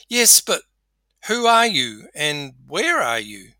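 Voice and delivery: high, loud start, questioning; puzzled calling. Acted. Man on cliff questions unseen voice, calling out puzzled. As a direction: call out, baffled by the unseen speaker.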